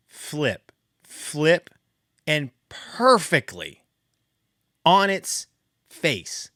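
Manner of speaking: slowed, dramatic play-by-play of a fall; slow-motion storytelling. Real, not acted. Slow-motion telling of the stick.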